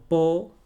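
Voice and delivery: "po-li-ci-a" with long pauses between syllables. Shown as a demonstration. Teacher showing how we say it, spaced "po-li-ci-a". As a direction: pause after each beat of "po-li-ci-a".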